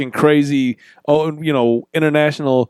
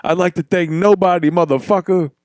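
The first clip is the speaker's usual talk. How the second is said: put-on Irish accent; 4 semitones higher than usual. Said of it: "McGregor's thing".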